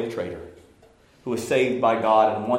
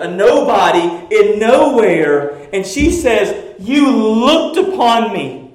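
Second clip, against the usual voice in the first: full-force preaching; 7 semitones higher, 12 dB louder than usual. Acted. Pastor thundering at the congregation about pride, full-force preaching. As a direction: preach it to the rafters.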